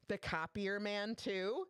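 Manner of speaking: incredulous. Retold or imitated. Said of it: "she's like".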